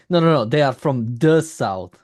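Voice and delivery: put-on slow, teasing Southern accent; lightly put-on Southern drawl; mock Southern accent. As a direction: imitate a Southerner drawing out the words. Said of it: "like somebody from the South saying".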